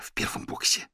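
breathy hissing whisper; hissed whisper. A narrator's reading. Manya hisses to the major about the box. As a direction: hiss it urgently under the breath. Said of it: "зашипела Маня".

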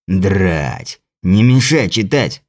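low, slow grumbling leprechaun. Acted. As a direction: grumble slowly, annoyed. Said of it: "потребовал".

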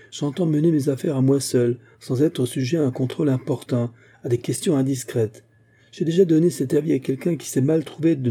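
put-on drunken angry rebuke. Drunk host angrily rebukes Ralph.

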